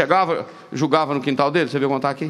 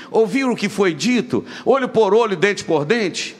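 olho por olho punched, dente por dente drawn out slowly; preacher hammering the old law; emphatic reading; 5 semitones higher, slower than usual. Acted. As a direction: lean hard on the old law. Reads scripture aloud.

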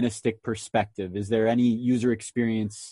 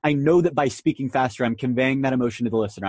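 speeding up. Shown as a demonstration. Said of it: "you'll hear my words start to pick up and you'll hear me talk faster and faster".

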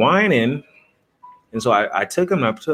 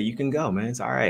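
soft; 2 semitones higher, 7 dB quieter than usual. Retold or imitated. Softly telling dying dog to go.

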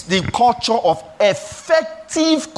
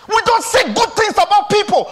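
high, raised scolding call; preaching shout; 9 semitones higher than usual. Acted. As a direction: lift it up as a rebuke.

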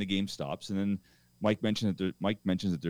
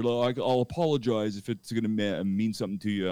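insincere offer. Retold or imitated. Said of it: "sort of insincere".

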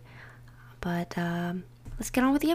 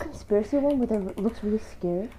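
talking into a cup; muffled; 2 semitones higher, 5 dB louder, faster than usual. Real, not acted. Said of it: "my voice will sound very muffled".

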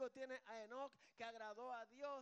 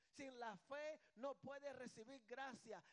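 slow emphatic refrain; slower than usual. Real, not acted. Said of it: "repeated preaching refrain".

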